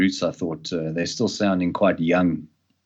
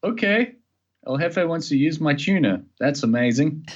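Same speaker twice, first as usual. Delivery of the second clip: starstruck excitement; 6 semitones higher than usual. Retold or imitated. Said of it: "I'm like".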